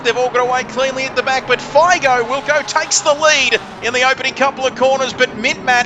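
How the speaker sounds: motorsport commentator. Acted. Live race call.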